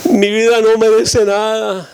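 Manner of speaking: lightly voiced little girl, mock whimper; mock crying girl. Ten-year-old telling the pastor her life is worthless, mock sobbing. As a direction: play a weepy ten-year-old, half-hearted. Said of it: "una niñita que estaba llorando".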